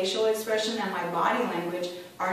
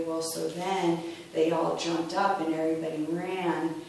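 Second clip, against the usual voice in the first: unexcited delivery; 3 semitones lower than usual. Shown as a demonstration. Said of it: "I'm not adding any excitement to it".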